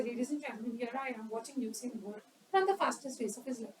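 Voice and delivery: slow, soft, lazy commentator; too slow commentary. Shown as a demonstration. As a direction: drawl the race call softly, much too calm. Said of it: "Appropriate? No, no, no".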